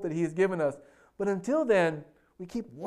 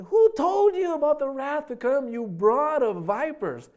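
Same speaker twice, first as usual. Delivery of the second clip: acted denunciation, pitch raised then drawn out slowly; stern rebuke; 8 semitones higher, 4 dB louder than usual. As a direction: preach it as John's accusing cry. John rebukes the Pharisees.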